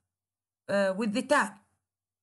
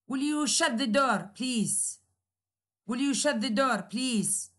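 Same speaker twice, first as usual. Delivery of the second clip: polite request. Shown as a demonstration. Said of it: "It is imperative, but it's very polite".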